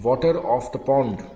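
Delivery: whole phrase at slow dictation speed. Shown as a demonstration. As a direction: read it slowly once through. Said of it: "कैसे लिखेंगे". (धीमी गति से पूरा वाक्यांश)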